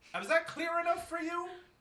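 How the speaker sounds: very high, shrill, frustrated shouting. Threatening in character that hunters will kill the artist: yelling. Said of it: "You're yelling".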